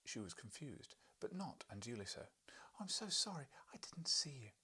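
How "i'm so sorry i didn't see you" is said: high, flustered apology; a wife's high fluster. Acted. Wife to visitor, a high flustered apology. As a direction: gasp out the apology.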